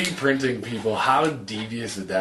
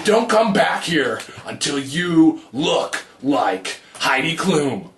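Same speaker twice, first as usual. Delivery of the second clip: harsh scale voice; 3 semitones higher, slower than usual. Pretend. Harsh scale scolding user.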